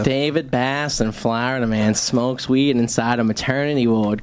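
comedy news-anchor delivery; mock news read. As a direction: read it out like a local crime bulletin. Reads mock crime news segment.

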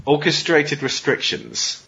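slow title announcement. Acted.

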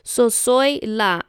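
soy la drawn out slowly, each word separate; slow name demo. Shown as a demonstration. Explaining her name, she says soy la slowly. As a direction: spell out soy la slowly for the viewer. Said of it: "the word la means the".

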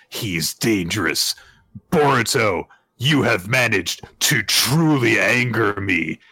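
dramatic menace. Retold or imitated. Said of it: "takes off his headband dramatically".

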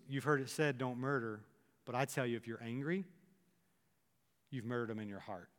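preacher quietly presses the point home to listeners, hushed; hushed quote. Acted. Preacher quoting Jesus softly.

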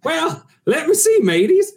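slow, hammy pirate drawl. Acted. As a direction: ham up an old sea dog. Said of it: "Tim is our intergalactic pirate".

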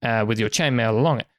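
lightly voiced merchant, lively sales pitch; salesman merchant. Merchant sweetening a cloak deal for customers, lightly voiced pitch. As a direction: pitch it like an eager market trader.

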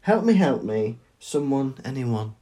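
mildly mock-helpless plea; damsel in distress. Echoing co-host's Harry impression, mildly pleading. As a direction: trail off into a feeble plea. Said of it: "damsel in distress".

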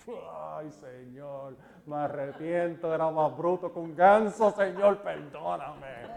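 soft, hushed plea for forgiveness; whispered remorse, slow on perdóname; repentant prayer. Acted. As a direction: confess quietly like a humbled man. Voiced repentant prayer to God.

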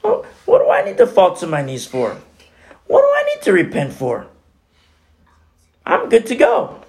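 high-pitched, self-satisfied voice of pride; prideful. Acted. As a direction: protest as if too proud to repent. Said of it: "That's what pride does".

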